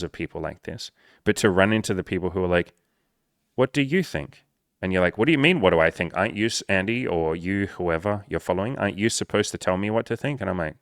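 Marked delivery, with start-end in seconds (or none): 3.5-4.4 high, lilting mock question; high teasing question. Mocking a coach's question. 5.2-10.4 mildly hammed-up disbelief; confused follower.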